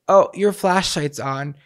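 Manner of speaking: drawn-out fake-helpful tone; slow mock helpful stranger. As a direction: spell it out like a know-it-all. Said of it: "Now it's".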